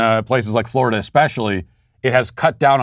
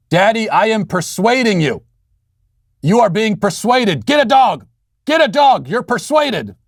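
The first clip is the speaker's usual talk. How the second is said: put-on high-pitched child's demand, building louder; imitated insistent daughter; 10 semitones higher than usual. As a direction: mimic a little girl commanding Daddy, pitch climbing. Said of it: "make your demand louder and louder".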